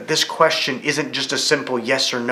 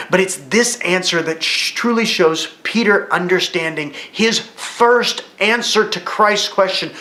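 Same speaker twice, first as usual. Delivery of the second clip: normal talking voice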